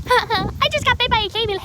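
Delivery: high, loud mock-laughing voice; imitated laughing. Imitating bitten friend on the phone to her mom, laughing. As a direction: laugh through it as if it's hilarious. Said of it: "she's laughing".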